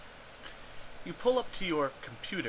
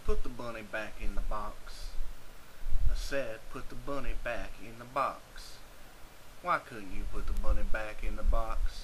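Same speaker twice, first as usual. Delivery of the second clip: movie villain quote; 3 semitones lower, 4 dB louder than usual. Retold or imitated. Quoting Con Air movie line.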